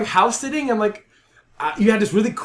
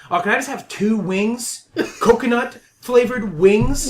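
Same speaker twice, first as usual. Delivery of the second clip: imitating Rob; 4 semitones higher, slower than usual. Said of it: "Rob's voice goes".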